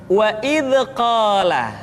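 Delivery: "wa id qala" with "id" bouncing into a short extra vowel; bounced dz. Shown as a demonstration. Teacher showing second mistake, "id" bounced. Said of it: "suara seringkali dipantulkan".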